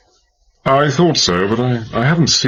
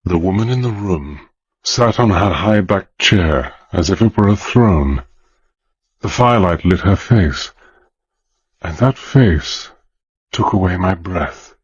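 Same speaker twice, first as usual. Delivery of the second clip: hushed, measured narrator voice, slowing on that face; story narration; 3 semitones lower than usual. A narrator's reading. Hannay narrating his first sight of the mother, awed storytelling. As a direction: tell it like a memory that still stuns you. Narrator describes the old woman.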